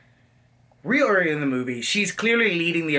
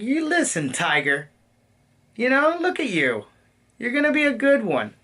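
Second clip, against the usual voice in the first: higher, cocky big-sister encouragement; cocky protective older girl; 5 semitones higher than usual. Retold or imitated. Captain Marvel sizing up Peter Parker, higher and cocky. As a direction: tease him like an older girl at a party. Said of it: "cocky, protectory".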